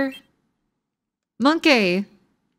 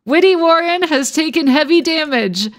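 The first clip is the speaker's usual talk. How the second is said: yelling boss voice. Acted. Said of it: "He's fucking yelling at us".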